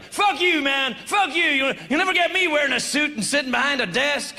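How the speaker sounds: mock angry punk kid; punk rebel yell. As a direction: spit it at the establishment like a young punk. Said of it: "I was like".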